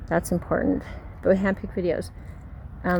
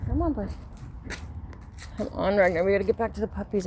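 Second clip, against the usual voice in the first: coaxing the dog along; calling a pet mid-story; talking to the dog; faster than usual. Real, not acted. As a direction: coax the dog, quick and light.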